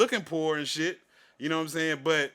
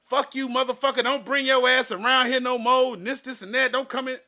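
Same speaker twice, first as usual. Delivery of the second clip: higher and louder mock tirade; imitating clerk's yelling; 8 semitones higher, 5 dB louder than usual. Clerk chasing customer out the door, mock angry yell. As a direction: throw the clerk's insults back, hammed up.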